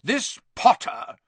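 very high, loud and slow; loud aunt, drawn out; loud Aunt Marge. A narrator's reading. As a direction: boom the name across the table. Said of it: "said Aunt Marge loudly".

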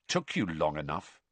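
low, soft cold jab. A narrator's reading. Harry snubbing Ron, cold and low. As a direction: let the resentment freeze. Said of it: "said Harry coldly".

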